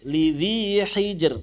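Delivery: "Lidhi hijr" drawn out, light r at the end; thin r. Shown as a demonstration. Teacher repeats the example, thin r.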